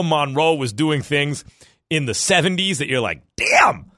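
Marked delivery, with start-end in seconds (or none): 3.4-3.9 a high, loud shout of amazement; amazed. Retold or imitated. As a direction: yell it out, blown away. Awed reaction to highlights.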